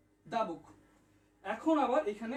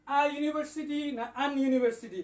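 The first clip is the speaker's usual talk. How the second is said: louder quiz question; 3 semitones higher, 5 dB louder than usual. Real, not acted. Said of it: "comment করুন দয়া করে".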